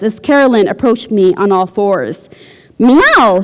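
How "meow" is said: a full, loud meow; belted meow. Acted. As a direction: belt it out from the chest. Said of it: "she belted out".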